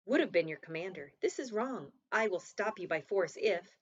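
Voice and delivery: loud firm rebuke over splashing. Acted. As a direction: call out over the rushing water. Commander confronts soldier in river.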